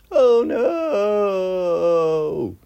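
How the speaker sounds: long, high wailed cry of dismay; drawn-out trailer-parody scream; mock-dramatic cry. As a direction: wail it out in mock horror.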